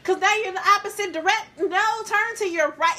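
exasperated dance teacher over Zoom; dance teacher instructing. Shown as a demonstration. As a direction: coach the class through the move over Zoom. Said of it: "So me going up here like".

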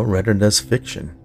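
ordinary delivery

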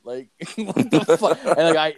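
laughing through the words; real laughing. Real, not acted. Telling friend about the creepy coworker, laughing as he talks. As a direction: crack up while telling it, voice lifted.

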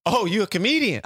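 light mimic of the door lady, surprised; a touch of surprised door lady; high lady's voice. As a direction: raise it up as the lady catching on. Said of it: "She said".

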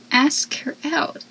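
slow, soft, pointed; quiet exasperated hint; slow soft advice. Retold or imitated. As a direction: lay it out gently.

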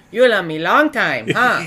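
mock a dopey way of talking; lightly put-on dumb voice; teasing, dim-witted impression of a partner; dumb-voice imitation. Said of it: "then you say it all dumb".

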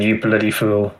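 duck voice. Retold or imitated.

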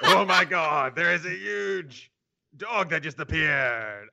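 hammy French accent, slowed down; exaggerated French accent, drawn out. Shown as a demonstration. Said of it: "I should have done a French accent".

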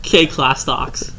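slow mock bot readout; imitating an automated call system; robotic voice. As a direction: read the name slowly like a machine. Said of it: "most robotic fucking shit I've ever heard".

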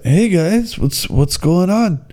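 high, drawn-out mock Minnesota accent; imitated Minnesota-like accent. Young guide greets visitors, imitated Minnesota-like accent. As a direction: greet in a put-on Minnesota-sounding lilt. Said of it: "they always talk so weird".

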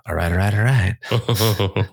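slow, drawn-out all right all right; lazy Texan drawl, stretched out; Matthew McConaughey. Retold or imitated. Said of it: "sound like Matthew McConaughey".

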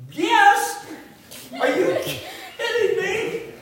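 a son jumping at the chance to talk, laughing and loud; excited yes. Retold or imitated. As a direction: burst out with eager, laughing disbelief. Eager reply to dad's offer.

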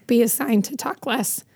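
strained, tired voice after losing it; talking with a worn-out, scratchy voice; hoarse voice. Real, not acted. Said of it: "The speaker's voice is a little strained. It's a little tired".

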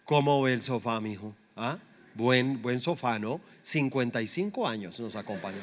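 understated impression of a satisfied father; imitated proud father. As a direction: show off an old possession, quietly proud. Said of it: "mi papá todo orgulloso me dice".

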